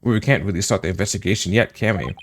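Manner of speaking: talking while eating; words round a bite of food; mouth full. Real, not acted. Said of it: "Let me finish my food again".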